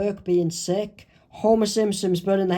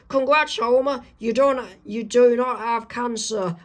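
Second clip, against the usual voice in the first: high-pitched congratulating doctor; 5 semitones higher than usual. Acted. Doctor tells Homer his good news, high-pitched and congratulatory. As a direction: announce good news in a raised voice. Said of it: "this is what the doctor says to Homer".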